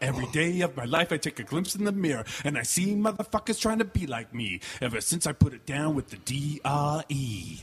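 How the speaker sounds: lightly voiced laid-back rapper; rap-style recital, a hint of impression; a well-known rapper. Comedian asked for his rapper impression, lightly rapped. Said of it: "what's your rapper voice?".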